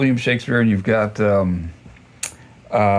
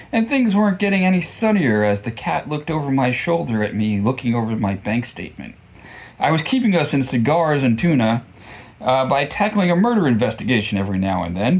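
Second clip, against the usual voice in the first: deadpan detective narration read from the page; story reading; 2 semitones higher than usual. Acted. Reading the book excerpt aloud to viewers, lightly performed story narration.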